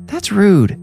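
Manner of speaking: put-on high, appalled little-girl voice; a child's offended rebuke, pitched well up. A narrator's reading. Neve scolding her brother, high and appalled. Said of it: "Appalled, Neve said".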